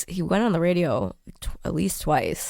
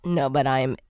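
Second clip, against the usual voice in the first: nasal sick voice; 5 semitones lower than usual. Real, not acted. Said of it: "my nasally voice".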